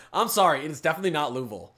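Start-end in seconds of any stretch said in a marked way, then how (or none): 1.3-1.7 Louisville as LOO-vul, Kentucky accent; Louisville with no middle vowel, Kentucky style; Kentucky-accent pronunciation. Shown as a demonstration. Streamer rejecting the local version, Kentucky-accent pronunciation. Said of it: "That's an accent".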